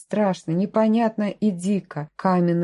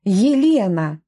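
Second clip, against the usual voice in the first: a short defiant shout, louder; snapped answer; 4 dB louder, slower than usual. A narrator's reading. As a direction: fling the name back at him. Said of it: "рявкнула в ответ". (дерзко рявкнуть имя)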